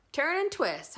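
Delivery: high, loud honk; honking goose. A narrator's reading. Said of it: "honked the goose".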